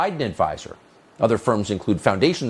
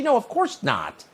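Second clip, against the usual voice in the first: sarcastic; 11 semitones higher than usual. Real, not acted. Sarcastic answer to own question.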